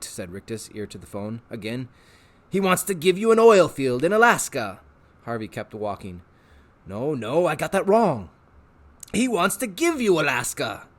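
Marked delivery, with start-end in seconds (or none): 2.5-4.8 eager, wheedling showman; a salesman tempting the boy; Rictus voice. Acted. Rictus tempting Harvey with pets, eager showman voice. 6.9-10.9 eager, wheedling showman; a salesman tempting the boy; Rictus voice. Acted. Rictus tempting Harvey with pets, eager showman voice.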